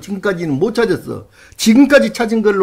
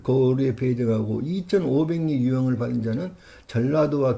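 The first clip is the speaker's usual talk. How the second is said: reading a document aloud; 5 semitones lower, 5 dB quieter than usual. Acted. Long reading of statute text.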